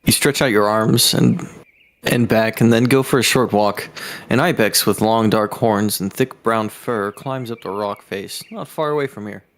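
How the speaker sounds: measured storyteller reading; game master's descriptive read; game story narration. A narrator's reading. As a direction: narrate the scene evenly to the players. Reads the game's scene aloud.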